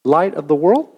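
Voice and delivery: light of the world asked with a rising, unsure lift; mock disbelief, as if they can't mean me; doubtful question. Disciples doubting Jesus, mildly incredulous. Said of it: "looked around and gone".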